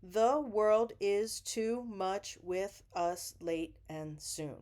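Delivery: slow poetry recitation; reciting slowly. Shown as a demonstration. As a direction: read the verse slowly and evenly. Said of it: "That's ten syllables".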